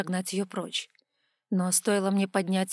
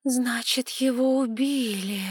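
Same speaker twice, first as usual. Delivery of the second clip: slow, stunned realisation; 4 semitones higher, slower than usual. A narrator's reading. Girl realises the master was murdered, stunned and slow. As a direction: let it sink in slowly. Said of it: "потрясённо проговорила я".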